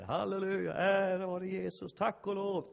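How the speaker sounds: high, loud hammed-up praise; mock a pastor praising with fervour; praying pastor. Pastor opening the prayer day, hammed-up loud praise. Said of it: "Han fortsätter".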